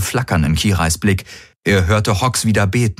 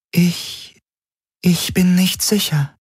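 raised, halting alien voice; hesitant alien Helix; 10 semitones higher, slower than usual. Acted. The alien Helix admits doubt to Garland, faltering. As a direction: falter like an unsure alien mind.

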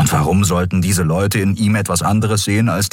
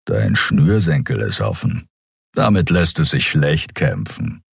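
low, rumbling giant's voice; 3 semitones lower than usual. Acted. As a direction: growl it out from deep in the chest.

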